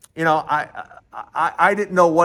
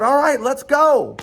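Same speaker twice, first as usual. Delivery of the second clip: louder, higher rallying cry; retold burst of eagerness, pitched up; eager go-ahead; 8 semitones higher, 5 dB louder than usual. Eager agreement to race, retold.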